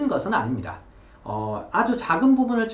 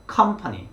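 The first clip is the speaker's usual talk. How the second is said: company with the stress on the first syllable, com, said higher; 3 semitones higher, much slower than usual. Shown as a demonstration. Teacher models company with the first syllable stressed. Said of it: "company 이렇게 발음을 하시면".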